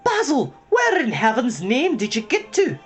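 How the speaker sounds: put-on high, exasperated Irish-accented question; relieved gasp. Young mouse greeting the late hare, relieved gasp. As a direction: burst out with relief. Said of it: "Matthias gasped with relief".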